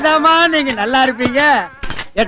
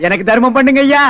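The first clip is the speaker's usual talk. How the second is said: beggar's whine; 2 semitones lower than usual. Acted. Pretends to beg alms.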